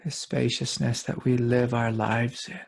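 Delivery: calm guided meditation with long pauses; unhurried meditation guide, spacious pauses. Real, not acted. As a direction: lead listeners gently inward, leaving long silences between phrases.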